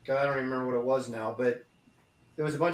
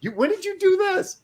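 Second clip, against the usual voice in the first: retold disbelief. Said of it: "I'm like".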